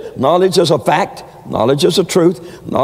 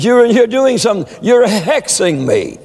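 mock screaming witch; 7 semitones higher than usual. Preacher acting the fortune teller ordering his mother out in a mock scream. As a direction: play the fortune teller shrieking her out.

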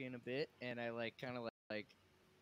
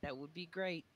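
friendly greeting voice; 6 semitones higher than usual. Pretend. Player speaking in character to creatures.

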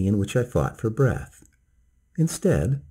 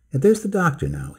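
cried out; 6 semitones higher than usual. Acted. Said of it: "he cried".

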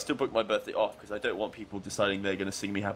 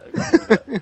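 louder and higher, leaning on I gotta give you that; emphatic repeat; 12 semitones higher, 13 dB louder, much faster than usual. Real, not acted. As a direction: repeat it, pushing it out loud.

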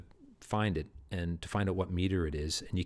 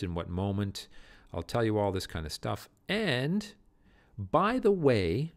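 Macbeth giving orders; 4 semitones higher, 5 dB louder than usual. Acted. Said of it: "Macbeth instructing murderers".

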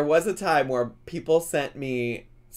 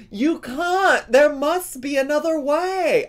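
high-pitched, loud British impression; hammed-up British plea, pitched way up; bad British accent; 12 semitones higher, 5 dB louder than usual. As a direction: cry it out in a shaky attempt at British. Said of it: "I don't have a good British accent at all".

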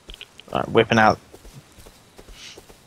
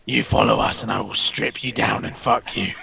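Bane-like growl; 3 semitones lower, 4 dB quieter than usual. Pretend. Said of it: "You sound so fucking off".

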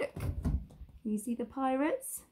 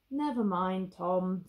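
gentle dad; 2 semitones lower, slower than usual. Acted. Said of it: "said his dad gently".

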